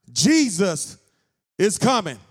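loud preached announcement; child preaching. Retold or imitated. Little boy preaching to a crowd in the mall, loud. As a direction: proclaim it to the crowd.

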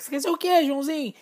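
put-on high, loud grown-up quizzing a child; mock-cheerful adult question to a little boy; adult asking a kid. Adult quizzing a kid about his future job, high and loud.

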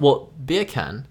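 slow British "beer can", "beer" said "bee-uh" with no r; drawn out "bee-uh can" to sound like "bacon"; British accent. Shown as a demonstration. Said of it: "Beer can in a British accent".

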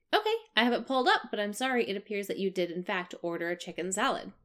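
customer service voice. Retold or imitated. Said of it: "I keep my chirpy customer service voice".

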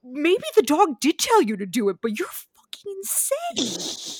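whispered aside with a laugh; whispering. Real, not acted. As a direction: drop to a whisper. Unvoiced aside while laughing.

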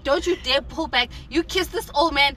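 telling yourself off, pitch climbing; mock self-scolding. Recounting how they punished themselves after the kiss, mock scolding. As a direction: scold yourself in a retold inner rant. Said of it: "I was punishing myself".

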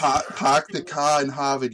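put-on thick Boston accent, dropped r's. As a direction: pahk the cah in Hahvahd. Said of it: "it's like a Boston accent".

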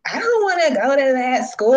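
mock whiny refusal, pitch swooping up then falling; reluctant student.

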